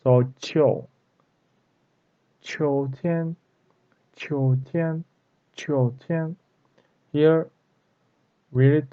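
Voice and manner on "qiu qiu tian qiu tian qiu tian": "qiu" with an O glide inside, like "chi-ou"; O in the middle. Shown as a demonstration. Teacher shows the hidden vowel, O in the middle. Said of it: "there is O".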